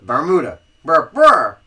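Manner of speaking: hammed-up Southern "Bermuda"; Southern accent. Shown as a demonstration. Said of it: "we're from the South".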